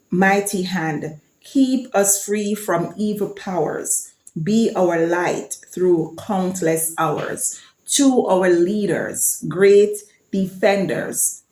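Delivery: slow, measured recital of the anthem words; anthem recitation. Shown as a demonstration. Vlogger recites Jamaica's anthem for viewers, slow measured recital. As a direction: speak each line of the anthem slowly and deliberately.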